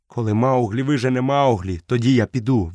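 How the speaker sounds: put-on boy stubbornly repeating the wolf's words; defiant retort. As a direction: throw his words back at him. Mowgli throws words back.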